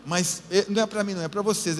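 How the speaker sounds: a hint of a skeptical father waving church away; imitating his father. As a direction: brush off church like the old man did, lightly. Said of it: "Ele falava desse jeito".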